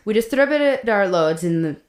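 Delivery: put-on light Russian accent reading a diary. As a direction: read it in a mild Russian accent. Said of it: "I'm trying to do a Russian accent".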